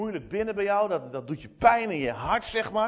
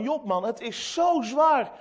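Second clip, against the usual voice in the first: slower, louder, pitched-up plea; heartfelt acted plea, leaning on the hardship; sympathetic wife of Job; 5 semitones higher, 5 dB louder than usual. Job's wife feeling for her suffering husband, pleading. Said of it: "ik kan me die vrouw wel een beetje voorstellen".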